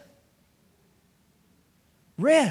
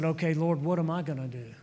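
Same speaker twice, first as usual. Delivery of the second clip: subdued retold question; 5 semitones lower, 4 dB quieter than usual. Pastor asking the Lord what comes next, subdued. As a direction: ask quietly, trying not to cry. Holding back tears, asks God.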